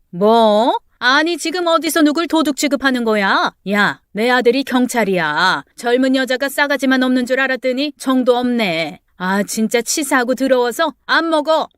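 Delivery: a touch of a hammed-up furious yell; mock angry outburst. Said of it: "버럭 소리를 지른 그 여자는". (버럭 화내는 이웃 아줌마)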